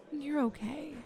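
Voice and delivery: gentle, quiet soothing; soft reassurance. Acted. Interviewer holding an upset applicant, soft reassurance. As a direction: soothe them softly with a gentle lift.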